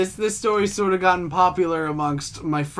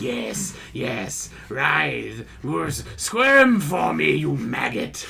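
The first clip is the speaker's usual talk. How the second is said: gloating villain; 3 semitones lower, much slower than usual. Retold or imitated. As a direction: savour it like a villain. Gloating over the broken dog.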